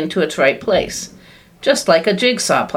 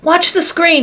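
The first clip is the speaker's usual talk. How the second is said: high, loud excited cry; cried out; 12 semitones higher, 3 dB louder than usual. A narrator's reading. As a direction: point everyone at the screen. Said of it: "he cried".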